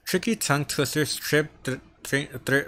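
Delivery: stumbling over the th sound, repeating it; stuttering. Real, not acted. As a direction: trip on "th-, th-," and stall.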